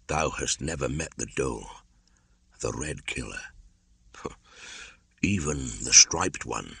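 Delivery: subdued, slightly soft wolf elder; a quiet, sober warning; understated grave caution from an old wolf; lightly voiced Akela.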